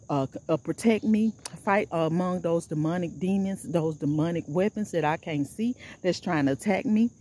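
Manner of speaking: firm, steady prayer against evil; rebuking prayer. Real, not acted. Praying against negative energy aimed at her video, firm prayer.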